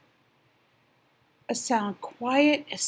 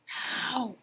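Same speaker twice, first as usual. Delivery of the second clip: whisper; 2 semitones higher, 6 dB quieter than usual. Acted. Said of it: "whispered the rabbit".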